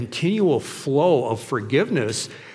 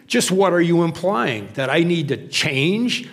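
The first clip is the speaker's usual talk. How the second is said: mock indignation, louder and higher; Calvin; 5 semitones higher, 4 dB louder than usual. Calvin bristling at Hobbes's advice, hammed-up indignation. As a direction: act offended, stretching the last question. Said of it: "And Calvin goes".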